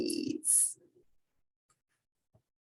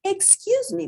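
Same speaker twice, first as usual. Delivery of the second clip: polite; 3 dB louder than usual. Acted. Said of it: "Portly said politely".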